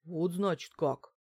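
slow, drawn-out realisation; drawled. A narrator's reading. Housekeeper taking in the news, drawling. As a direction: stretch the words as it sinks in. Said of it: "протянула Альбина Германовна".

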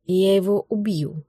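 slow, low hiss of rage; husband hissing a threat under his breath. A narrator's reading. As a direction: hiss a murderous promise. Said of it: "зашипел Лёша".

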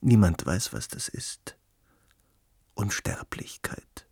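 hushed, slow, breathy wonder; mysterious whisper. Acted. Pondering immortality to his guest, a hushed whisper. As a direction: let the word fade into a whisper.

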